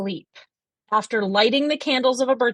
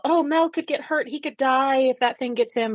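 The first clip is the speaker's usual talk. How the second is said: higher-pitched fretting, lightly acted; mock worry; 4 semitones higher than usual. Brownie fretting over Mel and the bee, worried. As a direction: imitate someone anxious for a friend. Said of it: "she's so worried that Mel".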